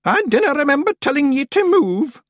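high, loud Scots command; shouting. A narrator's reading. Miss Treason halts the panicking Feegles, shouting. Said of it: "shouted Miss Treason".

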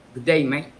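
dry Cockney "good day, mate"; Cockney accent. Shown as a demonstration. Podcast guest showing Cockney for comparison, dry Cockney accent. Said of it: "for a Cockney accent, it sounds a bit dry, it sounds a bit deeper".

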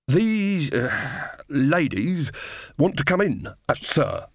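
lightly voiced nervous guard; nervous corporal. Corporal reporting the witches to his captain, hesitant.

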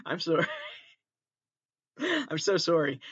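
apologising through real giggles; losing it with laughter mid-apology; helpless laughing. Real, not acted. Podcaster apologises to listeners for cracking up, laughing helplessly. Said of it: "hear me laugh at nothing".

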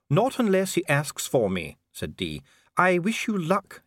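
nervous formal dwarf; dwarf official voice. A narrator's reading. Dee replies.

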